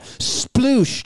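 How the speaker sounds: drawn-out splash sound effect; imitated splash. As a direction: mimic keys plopping into water, slowly. Imitates keys hitting drain water.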